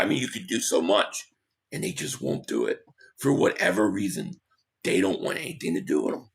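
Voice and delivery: losing his voice, hoarse and strained. Real, not acted. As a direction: talk like your voice is going. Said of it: "I'm losing my voice today".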